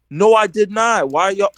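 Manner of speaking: high, drawn-out mock protest; indignant denial. Kid denying false witnesses' claim, acted indignant.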